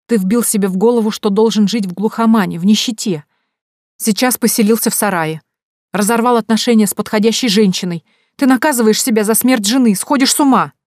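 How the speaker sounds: exasperated reproach. A narrator's reading. Mother scolding her widowed son, exasperated. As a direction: build an exasperated list of accusations.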